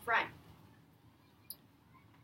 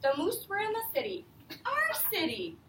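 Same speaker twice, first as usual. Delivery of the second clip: put-on reading to children. Teacher reading The Useful Moose to her class, lively read-aloud. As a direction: read it out to a class of young kids. Reads picture book to class.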